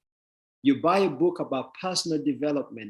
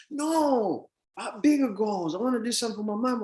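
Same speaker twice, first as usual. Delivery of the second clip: higher, near tears, rushing at the end; choked-up protest; 6 semitones higher than usual. Retold or imitated. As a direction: plead with a catch in the throat. Joe answers, voice cracking.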